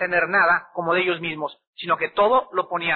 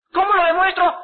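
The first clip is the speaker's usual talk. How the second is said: higher, louder bewildered question; puzzled question; 11 semitones higher, 4 dB louder than usual. Retold or imitated. Woman answering the preacher, loud and bewildered. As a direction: ask it as if completely lost.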